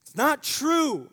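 high, slow, loud mock-tearful cry; retold crying protest. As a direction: voice the girl's upset protest. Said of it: "She's angry, she's crying".

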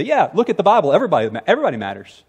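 mock dismissive church leader, quick at the end; tone-deaf brush-off. Church leaders brushing off the widows, dismissive. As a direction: toss it off as if it settles everything. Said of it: "a really tone-deaf response".

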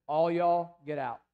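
a loud sharp All y'all, then get out; commanding shout. Retold or imitated. Jesus ordering the mourners out of the house, loud command. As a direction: bark it out as a command to clear the room. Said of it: "and he says".

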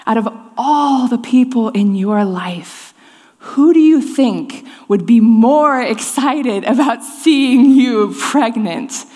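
slow, gentle, measured voice; slow divine question, patient and kind; voice of God. Retold or imitated. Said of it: "And he goes".

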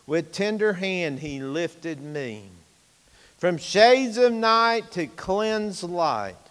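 slow, chanted hymn lines; hymn recitation. Real, not acted. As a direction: recite the hymn slowly and reverently.

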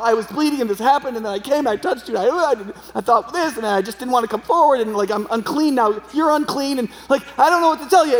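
mock-flustered run-on confession, pitch climbing at the end; retold blurted confession. Woman confesses everything to Jesus, imitated flustered outpouring. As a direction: blurt it all out, piling clause on clause. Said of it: "so she just says it all".

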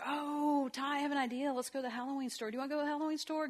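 put-on high, sing-song coaxing to a toddler; mock excited mom. Mom luring her toddler toward the Halloween store, excited. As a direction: dangle the treat brightly.

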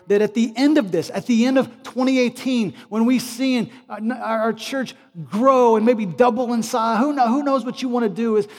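loud, high, urgent praying; impassioned plea, pouring out phrase after phrase; fervent prayer. Real, not acted. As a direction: build into a full-force preacher's prayer. Prayer at full force.

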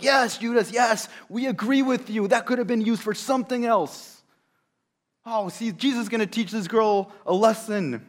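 high and loud, jeering agreement; eager Pharisees. Acted. Pharisees siding with Judas, loud and smug. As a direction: gang up with the critic.

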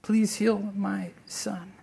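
soft, slow, drawn-out plea; quiet, spent plea of a father; soft pleading. Retold or imitated. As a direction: beg quietly, worn out. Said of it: "this is how he comes to Jesus".

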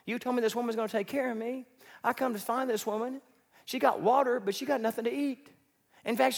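lightly voiced frustrated prophet; complaining Elijah. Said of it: "Elijah's gotta be thinking".

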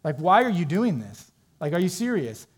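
mildly exasperated, incredulous questions; a touch of acted irritation; mock frustration. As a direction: act out frustrated disbelief. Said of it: "I'm frustrated".

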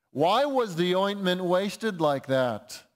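slow, mildly indignant protest. Retold or imitated. Preacher quoting disciples who object to wasted ointment, indignant. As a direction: quote it with drawn-out indignation. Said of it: "said to themselves indignantly".

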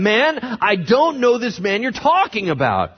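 loud, high, vehement protest; sworn denial. Acted. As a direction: swear it at them, voice way up. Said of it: "he swore to them".

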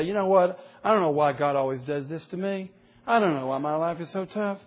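drawn-out complaining whine, slowing to a crawl at the end; mock whining. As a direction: whine like someone sorry for himself. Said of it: "just a bunch of whining".

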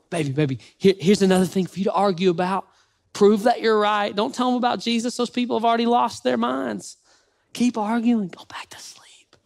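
put-on lightly coaxing baby talk, ending whispered; cooing to a baby. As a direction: hush a baby, then whisper.

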